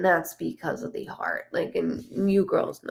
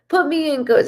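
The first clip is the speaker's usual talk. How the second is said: "Put me in, coach" higher with a punched "Put"; the right movie line, said keenly; eager corrected line; 7 semitones higher, 5 dB louder than usual. Retold or imitated. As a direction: fix the line and hit "Put" with eager energy. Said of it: "That's what he".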